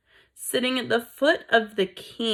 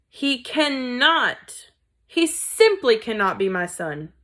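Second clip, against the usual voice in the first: despairing; 3 semitones higher, 3 dB louder, slower than usual. Acted. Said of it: "in despair".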